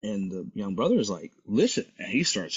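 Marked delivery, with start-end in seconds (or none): 1.5-1.9 higher-pitched retold warning; about to bark. Young man answers yelling white man, about to bark. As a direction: start to snap back, imitated. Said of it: "he's, like, about to bark".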